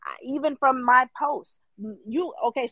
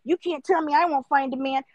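mock bitter commenter; 4 semitones higher than usual. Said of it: "I'm not in the comments telling people".

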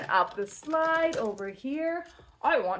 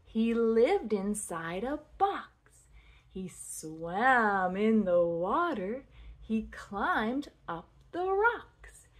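measured singsong rhyme for toddlers; nursery rhyme recital. Shown as a demonstration. Teaching a child a turtle rhyme, lilting recital. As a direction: recite each line with a lilting swing.

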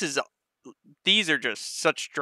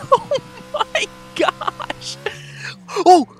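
excited; 6 dB louder, much slower than usual. Real, not acted. Thrilled by motion rig ride.

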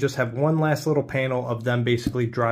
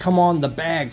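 higher, louder acted call; urgent urging; 4 semitones higher, 5 dB louder than usual. Child urged out of crashed car, mildly urgent retold call. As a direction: hurry someone along, lightly acted.

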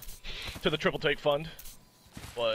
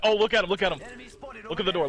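urgent, raised call to teammate; excited callout; 4 semitones higher, faster than usual. Real, not acted. Spotting enemy, calling out excitedly.

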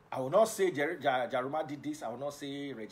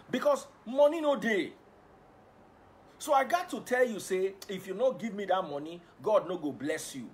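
mock preacher; 6 semitones higher, 6 dB louder than usual. Mock greedy preacher demanding money.

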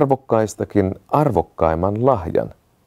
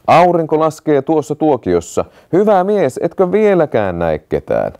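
higher, urgent calling out; 6 semitones higher than usual. A narrator's reading. The prince calls again to the watchman as the sun sets, urgently. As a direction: hurry the watchman along, calling. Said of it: "prinssi huusi taas".

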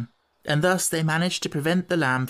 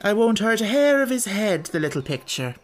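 coaxing gypsy woman; 7 semitones higher than usual. Acted.

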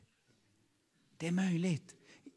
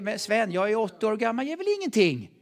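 imitated doubting old listener; 5 semitones higher, 3 dB louder than usual. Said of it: "Och du säger".

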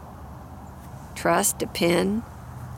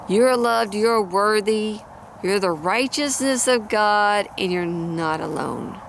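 sincere, holding back emotion. Real, not acted. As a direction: speak it to someone who needs to hear it. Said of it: "gonna get emotional".

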